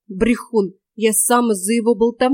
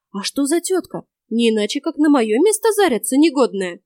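hammed-up indignant old woman, louder and higher; mock jealous outrage; 5 semitones higher, 5 dB louder than usual. Yaga fakes jealousy to fool the boy, hammed-up outrage. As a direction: overplay the jealousy, clumsily. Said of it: "мою топорную игру".

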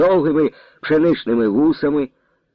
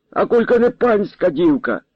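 put-on higher, indignant young man crying out; angry shout; 8 semitones higher than usual. A narrator's reading. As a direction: fling it out in anger. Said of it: "зло вигукнув".

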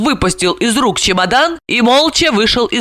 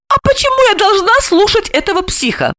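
much higher, sudden defiance; spring up with resolve; exclaiming. A narrator's reading. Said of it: "воскликнула Ася". (восклицая, решительно)

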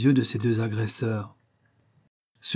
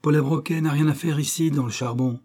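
a half-raised, angry shout from the coal; furious stoker, barely raised; mild shout; 4 semitones higher than usual. Acted. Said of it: "cria le chauffeur". (cri du chauffeur, à peine plus fort)

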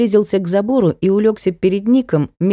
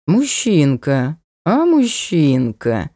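slow, affected flirty drawl; mannered drawl; much slower than usual. Acted. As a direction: stretch it out coyly like a dandy. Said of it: "манерно протянули".

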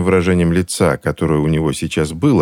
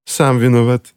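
preachy; 6 semitones higher than usual. A narrator's reading. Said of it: "назидательно заметила тётушка Мегана".

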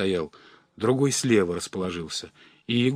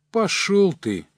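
higher, louder scornful snap; angry retort; 9 semitones higher, 5 dB louder, slower than usual. Acted. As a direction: brush him off with contempt. Crooks dismiss Egor's price.

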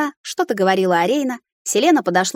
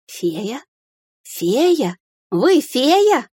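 growing excitement; 5 semitones higher, much slower than usual. Acted. Heroine recognizing the fairy, disbelief turning to hope. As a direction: realize it and light up.

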